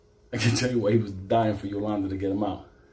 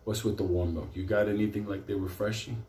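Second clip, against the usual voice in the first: hushed mock complaint; 3 semitones lower, 6 dB quieter than usual. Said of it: "Benito's like".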